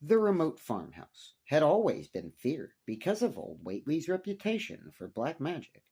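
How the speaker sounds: steady, measured horror-story reading; story narration. A narrator's reading. Narrator reading a horror tale to his listeners, measured storytelling. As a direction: read it like an old weird tale by lamplight.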